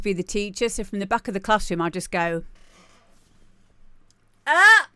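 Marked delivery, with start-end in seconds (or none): 4.5-4.9 loud, high sharp shout to silence a class; teacher's bark. Retold or imitated. Pupil faking the teacher to hush the class. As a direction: snap the room to attention like a teacher. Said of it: "In my best teachery voice".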